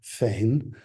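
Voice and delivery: repeated false starts on for; stuttering demo. Shown as a demonstration. Teacher imitates a learner restarting a word. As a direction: stammer the word start over and over. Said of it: "starting up the word".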